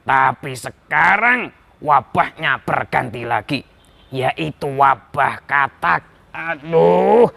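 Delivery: lightly voiced king addressing his ministers, groaning midway; troubled king. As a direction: complain as a weary king, then demand ideas. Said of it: "sang raja mengumpulkan para menteri-menterinya".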